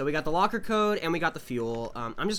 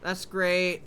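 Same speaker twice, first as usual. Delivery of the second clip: slow, higher sarcastic drawl; dry mock cheer after a scare; 5 semitones higher, slower than usual. Real, not acted. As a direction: say it dripping with sarcasm.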